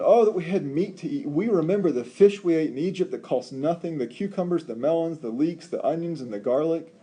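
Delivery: high, loud nostalgic whine; mock whining. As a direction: whine for the food of Egypt. People whining for Egypt's food.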